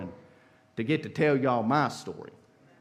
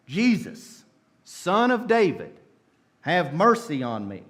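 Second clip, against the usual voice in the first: mild shout; 3 semitones higher, 3 dB louder than usual. Retold or imitated. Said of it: "he began to shout".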